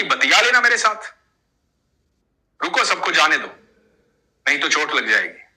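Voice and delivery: put-on a boy warning the old man to stop; young boy. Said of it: "तो बच्चा बोला कि".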